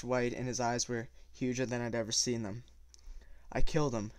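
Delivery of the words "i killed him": slow. Acted. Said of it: "he said slowly".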